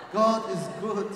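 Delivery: loud call to the congregation; rousing loud praise call; preacher's call. Real, not acted. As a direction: shout it out to the church.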